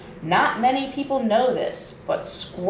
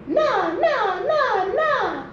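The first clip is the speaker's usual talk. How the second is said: higher, mocking sing-song na na; snorting taunt; 11 semitones higher, much slower than usual. A narrator's reading. Flugelbird mocking the old man, higher snorting taunt. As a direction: taunt like a smug bird. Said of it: "snorted the flugelbird".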